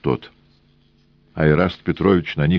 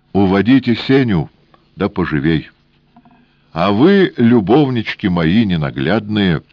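raised, imperious orders; commanding; 4 semitones higher, 4 dB louder than usual. A narrator's reading. Woman with revolver orders the engineer out, raised voice. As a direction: command them from behind the gun. Death orders men at gunpoint.

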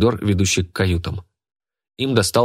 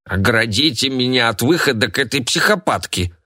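put-on grumpy old woman; 4 semitones higher than usual. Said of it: "заявила старушка".

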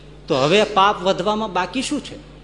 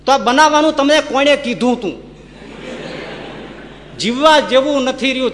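louder, accusing question to God; indignant rebuke; 6 semitones higher, 3 dB louder than usual. Acted. Man rebuking God for the world's sins, loud and accusing. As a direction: demand answers, half laughing.

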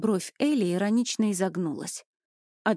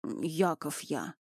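much softer, slow, reluctant mumble; squeezed out reluctantly; 4 semitones lower, 7 dB quieter, much slower than usual. A narrator's reading. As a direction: force the name out, ashamed. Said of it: "а затем выдавил". (смущённо выдавил имя, тихо и медленно)

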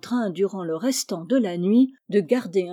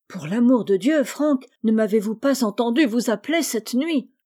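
exclaiming; 3 semitones higher, 4 dB louder than usual. Acted. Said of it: "exclama le malheureux patient".

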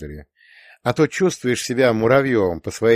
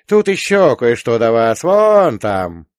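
calling out; 6 dB louder, slower than usual. A narrator's reading. Old man pointing something out.

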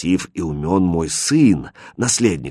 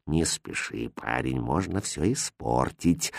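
low, very soft and slow; quiet warning; 8 semitones lower, 11 dB quieter, slower than usual. A narrator's reading. The innkeeper hushing his impatient son. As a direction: hold him back in a murmur. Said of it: "так же тихо ответил хозяин".

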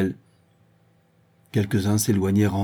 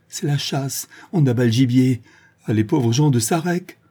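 rauque; 4 semitones higher, 3 dB louder than usual. Acted. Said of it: "d'un ton rauque".

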